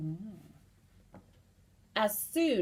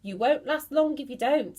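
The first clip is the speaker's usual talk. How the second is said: grisly gloat; 5 semitones higher, 7 dB louder, faster than usual. Acted. Mr Twit grinning grisly.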